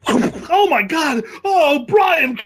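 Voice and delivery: very high, loud, slow crying shout; cartoon wail. Quoting the cartoon victim, high crying wail. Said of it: "Family Guy".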